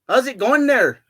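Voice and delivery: high-pitched mock British accent; sing-out attempt at a British accent. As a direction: try British and drift toward Canadian. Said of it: "trying to do a British accent".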